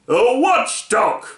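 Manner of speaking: slow, high, frightened cry; faint frightened shout from a Lethargarian. A narrator's reading. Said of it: "shouted another faintly from fright".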